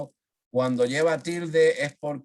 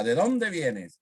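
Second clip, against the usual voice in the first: "dónde" raised, then falling away; questioning; 3 semitones higher, slower than usual. Shown as a demonstration. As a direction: ask it with emphasis on "dónde". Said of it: "cuando se pregunta".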